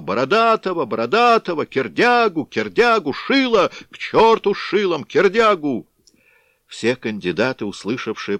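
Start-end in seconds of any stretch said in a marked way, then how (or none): 0.0-5.9 loud, very high clashing shouts; frenzied crowd yell; crowd shouting. A narrator's reading. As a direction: yell the names over each other. Crowd shouting rival names.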